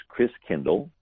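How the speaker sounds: Christkindl said as KRIS-kin-dul; German pronunciation. Shown as a demonstration. Explaining the German for Christ child, German pronunciation of Christkindl. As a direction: say Christkindl with short i's, ending in -dul. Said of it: "the German pronunciation of Christ child".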